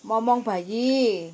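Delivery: very slow, each word spelled out; slow and clear. Real, not acted. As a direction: repeat it slowly for a bad line.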